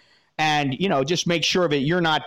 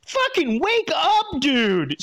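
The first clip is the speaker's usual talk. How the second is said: pitched way up, slow and forceful; exasperated outburst; 8 semitones higher, slower than usual. Real, not acted. Vlogger yelling at the letter writer, exasperated high outburst. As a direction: yank him awake with the words.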